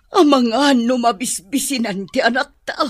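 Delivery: crying through the words; tearful lament. Acted. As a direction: grieve for the daughter. Mother laments her daughter.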